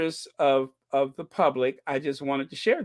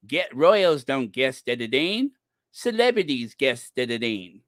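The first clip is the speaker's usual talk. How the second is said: lightly mocked New Zealand twang, tongue-tied; Dan Wooten; 3 semitones lower than usual. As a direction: imitate someone stumbling in a New Zealand accent. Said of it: "he can't even say editing".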